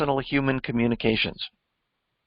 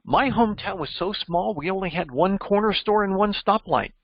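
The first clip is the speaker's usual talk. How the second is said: lively, a touch higher vivid version; vivid telling; 4 semitones higher than usual. Shown as a demonstration. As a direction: paint the picture with a bit more life. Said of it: "or you could say".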